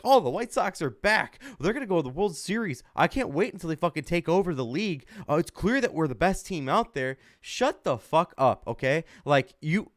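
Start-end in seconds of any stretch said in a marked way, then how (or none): 0.0-7.2 higher, gloating mock fan voice; mock cocky fans. Mocking bandwagon fans after one win, higher gloating mock voice. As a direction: parody bandwagon fans crowing. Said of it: "Everyone's like".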